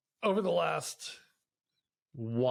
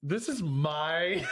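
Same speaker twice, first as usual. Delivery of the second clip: higher, drawn-out mock protest with laughter; laughing protest; 4 semitones higher, much slower than usual. Husband to wife about his bathroom counter, laughing protest. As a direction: laugh while slowly staking your claim. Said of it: "I'm laughing 'cause I'm like".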